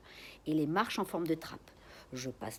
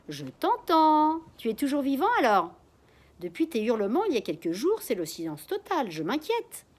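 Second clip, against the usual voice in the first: put-on high, louder quavering old man; 7 semitones higher, 9 dB louder than usual. A narrator's reading. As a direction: call out like a trembling old neighbor. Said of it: "une voix chevrotante".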